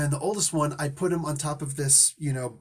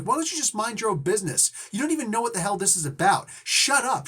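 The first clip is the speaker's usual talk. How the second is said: higher, mild mock yell; retold screaming; 5 semitones higher than usual. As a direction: imitate a wife telling off a meddler. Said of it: "had to go up and scream at her".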